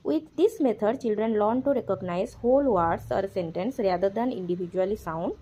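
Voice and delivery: slow, deliberate reading of the English text aloud; slow textbook reading. Acted. Teacher reads the textbook line aloud, very slowly. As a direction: read each word out slowly for the class.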